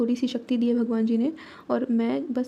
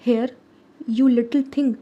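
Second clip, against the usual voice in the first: louder, raised angry shout at a squirrel; thunderous shout; 4 dB louder, much slower than usual. Acted. Monkey shouting at the little squirrel in his way, loud and angry. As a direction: bellow it like thunder. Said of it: "shouted the monkey in a voice like thunder".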